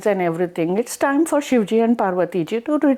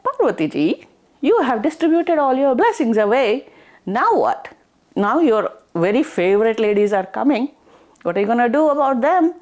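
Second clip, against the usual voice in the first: teasing husband; 4 semitones higher than usual. Acted. Shivji teasing Parvati in story.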